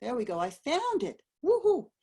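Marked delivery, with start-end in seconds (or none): 1.4-1.9 excited. Real, not acted. Found the mute button.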